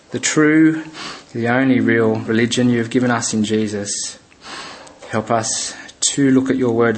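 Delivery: measured public prayer, with pauses between phrases. Real, not acted. Leads a closing prayer.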